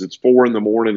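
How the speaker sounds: usual speaking voice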